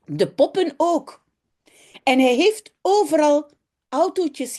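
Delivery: put-on lively children's story reading in Dutch, voices for the kids; story narration. A narrator's reading. Teacher reads a Dutch story to her class, lively and clear. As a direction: read it aloud like to a class of children.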